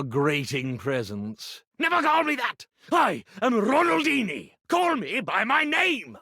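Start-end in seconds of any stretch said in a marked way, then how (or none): 1.8-6.2 higher, offended theatrical protest; indignant outburst. Acted. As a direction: insist on your name, wounded pride. Magician outraged at a nickname.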